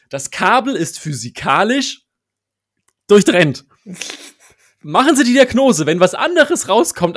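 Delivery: "Das Kabel ist physikalisch durchtrennt" spelled out slowly, loud; every syllable of "physikalisch durchtrennt" pronounced slowly and sharply; over enunciating. Retold or imitated. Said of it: "zum Mitschreiben".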